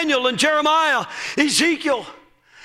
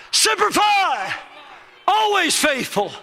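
higher, slow Marine battle cry; loud gung-ho soldier; 4 semitones higher, slower than usual. Shown as a demonstration. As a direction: bark it like a proud Marine. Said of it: "Say it like a Marine".

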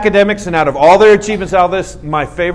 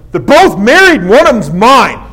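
louder, firm claim; loud protective declaration; 5 semitones higher, 7 dB louder than usual. Retold or imitated. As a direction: stake your claim loudly. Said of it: "I go".

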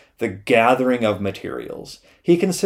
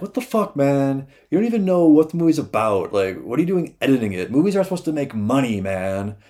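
exasperated rant; 4 semitones higher than usual. Retold or imitated. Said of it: "and Lucas is like".

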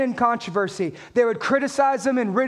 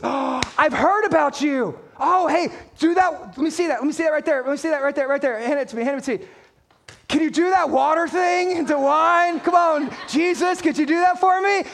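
mildly hammed-up starstruck pestering; eager fan; 2 semitones higher than usual. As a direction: play an over-eager fan begging for a trick. Acts out an eager fan of Jesus.

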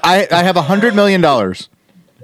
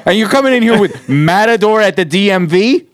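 laughing mock outrage; 3 semitones higher than usual. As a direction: fake angry producer, laughing. Mock outraged studio exec.

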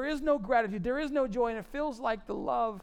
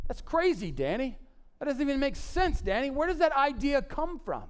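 higher-pitched skeptical listener, names lifted questioningly; lightly acted protest, pitched up; incredulous objector; 6 semitones higher than usual. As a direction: challenge the preacher in mock disbelief.

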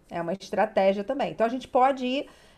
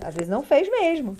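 ordinary delivery

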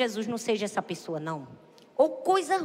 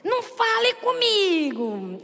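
irritated snap; 6 semitones higher, 3 dB louder, slower than usual. Retold or imitated. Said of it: "Ela diz".

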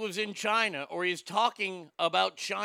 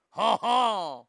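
mock French laugh; 5 dB louder than usual. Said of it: "she left out was the ha ha".

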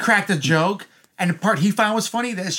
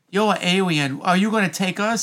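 little girl impression; 4 dB quieter than usual. Little girl asks the alien to take them, imitated child's speech. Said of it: "did she not talk like this?".

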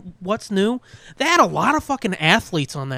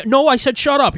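louder, insistent shut up; mock shushing; 7 semitones higher, 6 dB louder than usual. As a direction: playfully shout him down. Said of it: "Instead of me being like".

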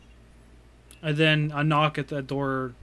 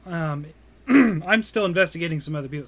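hoarse, strained voice; losing voice; faster than usual. Real, not acted. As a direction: voice giving out. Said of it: "I'm losing my voice".

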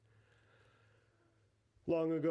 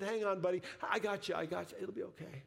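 urgent reassurance; 6 semitones higher than usual. Retold or imitated. Father comforts son facing the needle, retold reassurance.

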